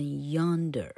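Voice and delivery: yonder slowly, leaning on the y glide; careful, drawn-out yonder for learners; model pronunciation. Shown as a demonstration. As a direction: demonstrate the y that opens yonder. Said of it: "老柯念给你听哦".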